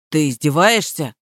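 low, blank echo of her words; dull parroting. A narrator's reading. Gardener echoes the mistress word for word, blank and low. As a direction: parrot it back mindlessly, low.

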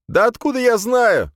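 very high, loud wail; high-pitched indignant outcry; exasperated yell. A narrator's reading. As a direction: yell it in protest, voice shooting up. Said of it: "завопил я".

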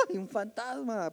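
a soft, mock-scared ghost cry; mock ghost scream. Preacher imitating disciples seeing a ghost, mock fright. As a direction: play the startled disciples, half-joking. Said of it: "pegaron el grito".

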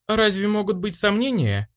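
high, offended female voice; hurt. A narrator's reading. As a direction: sound wounded by the question. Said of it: "с обидой ответила она".

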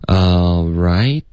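ALL RIGHT slowed, rising, t on RIGHT; released t. Retold or imitated. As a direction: imitate RIGHT with its final t not dropped. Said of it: "这个特的音没有省略". (“right”结尾的特不省略)

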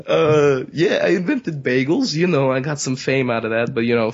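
indignant put-on guy; New York character. New York guy refusing to leave the show, indignant. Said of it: "character you're doing".

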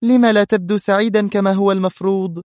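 high, puzzled woman's question; astonished. A narrator's reading. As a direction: ask in open surprise. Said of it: "سألته في دهشة".

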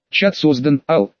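flat, even robot voice. Acted. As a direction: speak like a machine assistant. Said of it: "голосом робота сказала Катрин".

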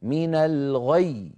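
من الغي slow with a pressed doubled ي at the end; stressed stop. Shown as a demonstration. Teacher demonstrating the doubled stop. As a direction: lean hard into the final ي of من الغي. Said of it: "هكذا".

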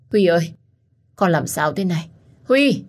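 a mother's cry rising to a loud wail on the name; calling out in panic, voice breaking at the end; anguished cry. Acted. Mother crying out to her bleeding son, anguished wail.

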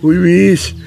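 put-on very high, loud scolding old wife; old woman's shout. A narrator's reading. Old wife shames her husband, scolding shout. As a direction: scold him in a piercing high shout, stretching the words. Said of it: "закричала Кривоносиха".

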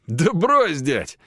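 sarcastic, high and loud jab; mock the professor. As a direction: Roma sneering at the professor. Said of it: "саркастически произнёс Рома".

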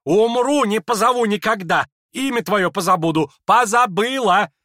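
shrieked high and loud; furious vow. Acted. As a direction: hurl each word like a slammed door. Lizaveta vows in a rage.

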